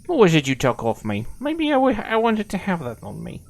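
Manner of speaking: high put-on dog voice for the pet; playfully voicing the dog's complaint. Owner voices his dog asking for something back, high and playful. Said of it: "or he will be like".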